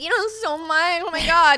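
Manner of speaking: high, loud swooning gush; mock fawning girl. Mocking girls who fawn over him, high and gushing. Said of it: "Some girls, like".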